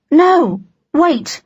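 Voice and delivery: sudden high urgent call; urgent shout. Acted. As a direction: stop him, urgently. Calico stops Fred urgently.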